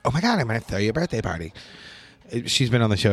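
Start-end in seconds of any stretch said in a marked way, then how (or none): 0.0-1.5 lightly mocked gushing girlfriend; teasing imitation of an eager girlfriend; mocking girlfriend. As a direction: poke fun at her excited offer, lightly. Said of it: "she doesn't talk like that".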